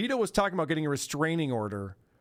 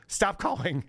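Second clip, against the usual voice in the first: curt brush-off; slower than usual. Retold or imitated. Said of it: "You know, just like".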